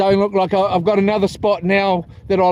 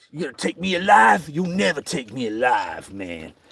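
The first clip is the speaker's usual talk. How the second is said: put-on voice, low and swooping in pitch; 5 semitones lower, 5 dB quieter than usual. Doing an impression for chat viewers: Chopper Read impression. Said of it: "I've got some Chopper Reed action".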